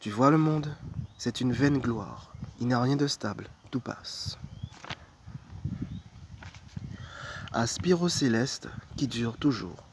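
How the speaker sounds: measured recitation with long pauses between verses; devotional poem reading. Acted. Reading Thérèse d'Avila's poem to viewers, measured devotional recitation. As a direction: recite it as a solemn prayer, line by line. Reads poems of second saint.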